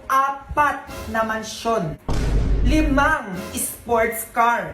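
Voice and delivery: slow, deliberate showing off; boastful speech. Acted. Billionaire guest boasting to the audience, slow self-important speech. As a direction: spell out the riches word by drawn-out word.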